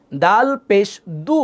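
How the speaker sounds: slow "দাল পেশ দু" with rounded lips on "দু"; rounded pesh. Shown as a demonstration. Teacher models "দাল পেশ দু", slow, lips rounded. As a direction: round the mouth fully for "দু". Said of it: "পেশ বললে মুখ গোল হবে".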